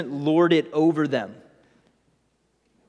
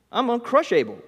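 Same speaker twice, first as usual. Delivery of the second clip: boasting Cain; 9 semitones higher, faster than usual. Retold or imitated. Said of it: "Lords it over Abel".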